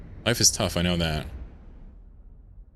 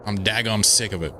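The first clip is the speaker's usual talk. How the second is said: lightly hammed-up meme Southern drawl, y'all and daggum; a hint of a cranky Southern trucker in Southern drawl. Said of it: "I have a halfway decent meme version".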